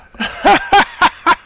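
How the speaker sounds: sudden high-pitched laugh. Real, not acted. Laughs at a funny free model.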